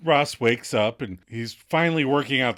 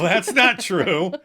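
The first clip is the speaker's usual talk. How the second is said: slow relish; 5 semitones higher, 6 dB louder, slower than usual. Shown as a demonstration. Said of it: "I do like that line".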